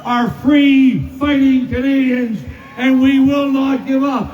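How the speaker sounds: rising rally oratory, punching each line; rally a cheering crowd; roaring rallying speech. Real, not acted.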